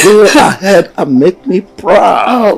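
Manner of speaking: laughing through words. Acted. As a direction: speak through a chuckle. King laughs while speaking.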